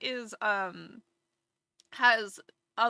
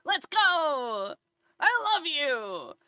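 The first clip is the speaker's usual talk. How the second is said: higher, eager playful cat; the playful cat gushing at its owner, higher and excited; 5 semitones higher, 4 dB louder, much slower than usual. Retold or imitated. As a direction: bounce like a thrilled pet. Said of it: "he'll be like".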